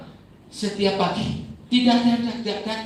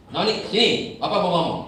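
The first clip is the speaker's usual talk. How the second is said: impatient call; 5 semitones higher, 5 dB louder than usual. Retold or imitated. Father losing patience.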